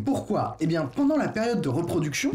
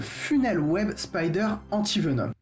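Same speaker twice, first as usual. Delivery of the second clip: English accent. Real, not acted. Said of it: "mon accent anglais est pas terrible".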